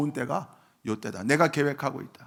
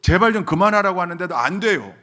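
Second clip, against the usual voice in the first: loud, raised mock protest; retold indignation; 6 semitones higher, 8 dB louder than usual. Preacher retelling the deaconess's protest at being silenced, indignant. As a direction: imitate an offended worshipper protesting. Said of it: "화를 내세요".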